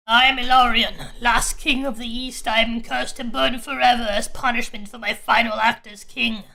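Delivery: slow, low solemn demon king; a lightly voiced cursed king, slow and heavy. Fire demon introduces himself.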